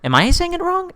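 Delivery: normal talking voice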